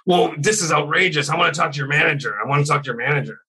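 high, whiny complaining customer voice; mock entitled customer. Waiter mocking a rude customer to friends, whiny and high. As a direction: sneer it like a spoiled customer demanding the manager.

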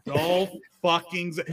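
"Dolph fucking Zi-" with deliberately misplaced stress, cut off; odd emphasis. Shown as a demonstration. Showing Nate how to say the wrestler's name, odd emphasis. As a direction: lean on the wrong word in "Dolph fucking Zi-". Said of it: "put the emphasis on the wrong word".

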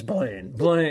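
lockjaw impression of an actor; James Spader. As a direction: say the name through a locked jaw. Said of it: "He's got the great lockjaw".

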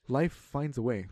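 slow, lightly imitated movie line; movie quote impression. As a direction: drawl it out like the Jurassic Park scientist. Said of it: "the guy from Jurassic Park".

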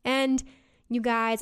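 winded from talking; out of breath. Real, not acted. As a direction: talk while catching your breath. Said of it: "I'm out of breath".

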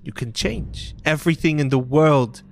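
lightly voiced wounded younger sister; pained, angry girl character; Goliath girl, bitter. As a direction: accuse him, pitch rising with the hurt.

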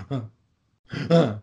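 short startled intakes of breath; imitated gasp. Sarah gasps as he gets ready to go, startled. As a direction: mimic a jumpy passenger's gasps. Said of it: "Sarah would gasp".

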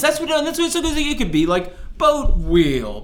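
high, loud, laughing protest over the boat slang; exasperated disbelief. Real, not acted. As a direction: throw up your hands at the word boat, laughing.

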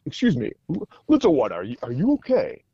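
lightly put-on heroic god voice; a touch of grand superhero concern; great Thor voice. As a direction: gently address a child as a mighty hero. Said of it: "in the great, my great Thor voice".

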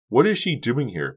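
high, loud disbelieving question; astonished. A narrator's reading. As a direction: ask yourself in disbelief. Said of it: "couldn't hide her astonishment".

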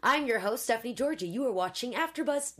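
lightly put-on anchor intro; mildly mock broadcast voice; news anchor attempt. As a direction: have a go at a host's sign-on. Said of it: "You really do have a news anchor voice".

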